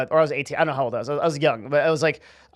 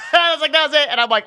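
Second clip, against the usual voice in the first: cracking up, high-pitched through the words; real laughter; 13 semitones higher, 6 dB louder, faster than usual. Real, not acted. Embarrassed teller recalls facing down security guards, laughing. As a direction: laugh helplessly while trying to carry on the story.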